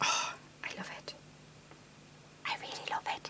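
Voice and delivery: very quiet, soft, breathy, hushed whisper. Video host talking about an item they love: whispering. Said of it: "I don't know why I'm whispering".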